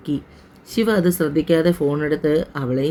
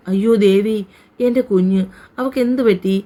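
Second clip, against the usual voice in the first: high-pitched, mildly acted cry of alarm; distraught wail; 5 semitones higher than usual. Mother hearing of her daughter's accident, understated wail. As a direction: wail in dismay, voice climbing, not full out. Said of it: "Subhadra വാവിട്ട് നിലവിളിച്ചു".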